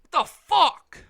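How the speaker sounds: high, loud what the fuck; incredulous. Real, not acted. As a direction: throw up your hands, disbelieving. Incredulous rant.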